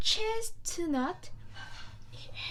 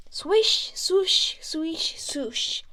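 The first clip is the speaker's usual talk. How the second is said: swishing sound words; 5 dB louder, slower than usual. Acted. Narrator acting out the donkey's tail swishing loudly.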